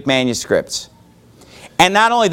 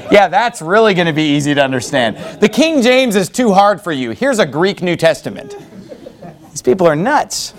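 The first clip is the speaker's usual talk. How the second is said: laughing sarcasm. Real, not acted.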